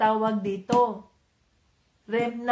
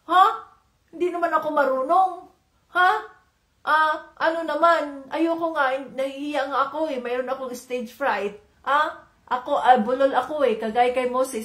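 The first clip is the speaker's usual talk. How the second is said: whiny excuse-maker. Pretend. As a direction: play a reluctant servant dodging God's call. Imagined excuses to God's call.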